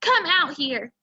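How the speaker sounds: firm soldier order; stern command. Acted. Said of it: "he ordered".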